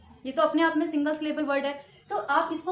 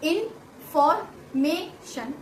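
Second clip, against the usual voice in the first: put-on patient teacher breaking a word for a child; इन्फॉर्मेशन spelled out slowly in syllables; 3 semitones higher than usual. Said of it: "तो आप उसे बोलेंगे". (बच्चे को समझाती teacher, इन्फॉर्मेशन धीरे धीरे तोड़कर)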